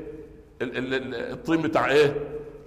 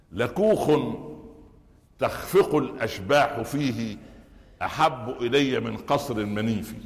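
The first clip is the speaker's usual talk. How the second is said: poem recital. Acted. Recites the Bedouin woman's poem. (إلقاء شعري بطيء ومتأنٍّ)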